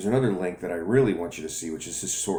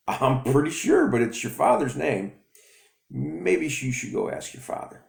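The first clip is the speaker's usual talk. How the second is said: mom voice; 8 semitones higher, 5 dB louder than usual. Acted. Mother voiced.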